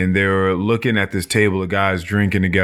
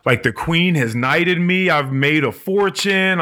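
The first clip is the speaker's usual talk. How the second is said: higher, delighted boast; giddy bragging; 6 semitones higher than usual. Retold or imitated. The knighted man boasts to Dream, giddy and higher. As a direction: brag giddily about your luck. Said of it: "he's like".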